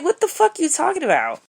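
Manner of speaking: high, fast, incredulous what the fuck; baffled outburst. Retold or imitated. Retelling a stranger's creepy message, high incredulous outburst. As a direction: squeak it out in disbelief. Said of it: "I'm like".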